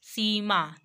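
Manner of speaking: सीमा with the "ee" held long; slow teaching demo of सीमा; long vowel. Shown as a demonstration. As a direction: draw out the first syllable of सीमा. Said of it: "long sound based है".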